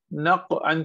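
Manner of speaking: नक़अन with a thick q and no bounce; heavy, without qalqalah. Shown as a demonstration. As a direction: stop the q of नक़अन, no echo after it. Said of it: "मोटा तो करें लेकिन कलकला ना करें".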